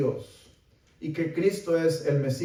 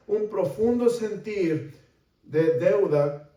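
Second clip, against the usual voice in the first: raised, insistent sermon voice; earnest preaching; 5 semitones higher, 3 dB louder than usual. Real, not acted. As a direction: preach with mounting urgency.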